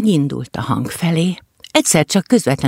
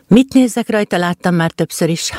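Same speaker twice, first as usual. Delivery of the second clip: dismissive; 3 semitones higher than usual. Acted. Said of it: "mondta fitymálóan az egér".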